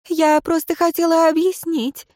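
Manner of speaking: a woman near tears trying to explain; tearful woman. Acted. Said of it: "Женщина всхлипнула".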